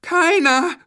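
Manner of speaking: put-on high, loud child's shout; children calling in chorus. A narrator's reading. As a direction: shout it out as defiant kids. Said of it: "riefen die Kinder im Chor".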